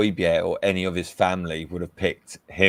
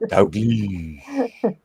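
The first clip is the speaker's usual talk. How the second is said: put-on Scandinavian accent. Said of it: "say it with Indian accent or a Scandinavian accent".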